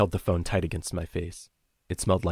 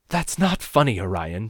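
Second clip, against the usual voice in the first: high, louder indignant reproach; scolding mother; 4 semitones higher, 5 dB louder than usual. A narrator's reading. Mother scolding giggling caller over bad joke, indignant. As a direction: tell off a joker, pitched up.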